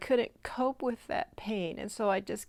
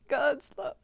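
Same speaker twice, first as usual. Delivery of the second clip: God's love said aloud again, higher, pushing through emotion; emotional retry; 4 semitones higher than usual. Real, not acted. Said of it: "Sorry, I'm so emotional".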